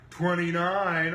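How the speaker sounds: loud, high, slow imitation; mimicked team announcement. Next team giving their points, loud high mimicry.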